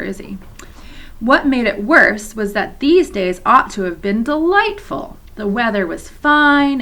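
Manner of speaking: put-on reading aloud to children, steady and clear; story narration. A narrator's reading. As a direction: read the chapter like a teacher at story time. Teacher reads novel to class.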